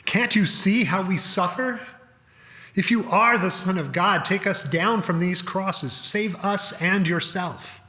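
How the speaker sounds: mild cry out. Acted. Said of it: "cried out to Jesus".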